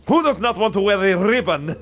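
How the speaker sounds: high, loud, over-the-top outrage; exaggerated indignant shout. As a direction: bellow it like a man offended to the core. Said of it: "And he just turns around".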